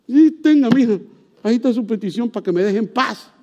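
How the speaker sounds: a hint of an exasperated judge; fed-up judge. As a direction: wave her off just to be left alone. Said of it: "que el juez dijo".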